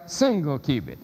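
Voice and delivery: "single" stressed in "single cubit"; stress on the supplied word. Shown as a demonstration. Lecturer reading out an italicized word, "single" stressed. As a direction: lean on "single" before "cubit". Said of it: "just to emphasize the word".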